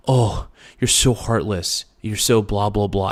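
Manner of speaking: mock guilt trip. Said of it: "guilt trip and say".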